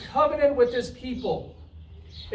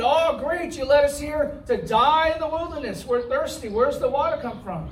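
a hammed-up sarcastic gripe about thirst; mock complaining; 3 semitones higher than usual. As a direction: whine like the ungrateful Israelites. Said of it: "They complained to God".

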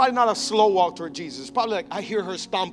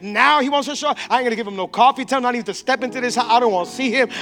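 indignant rant; 4 semitones higher, 4 dB louder, faster than usual. Acted. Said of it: "Mary is next level upset".

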